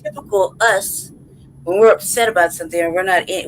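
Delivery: normal talking voice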